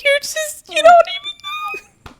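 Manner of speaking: very high, squeaky crying voice; mock tearful wail. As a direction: re-enact blubbering at your idol, drawn out. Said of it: "I started crying".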